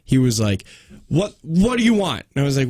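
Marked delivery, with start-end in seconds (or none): 1.1-2.2 mildly irritated mock demand; a touch of impatient anger, retold; imitated angry man. Tow driver answering her call, mock angry. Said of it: "he's immediately angry".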